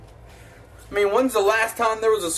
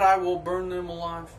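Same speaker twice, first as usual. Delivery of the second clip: a little psycho. Acted. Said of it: "That was a little psycho".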